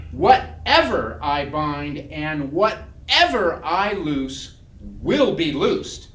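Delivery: slow, loud recitation; emphatic proclamation. Retold or imitated. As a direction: pronounce it like a decree, drawn out. Recites verse as defiant proclamation.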